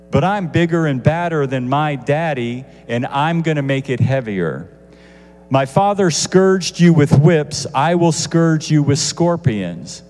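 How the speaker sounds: put-on a young king bragging he'll outdo his father, loud and harsh; boastful loud threat. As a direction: puff up and threaten the people. King boasting harsh answer to people.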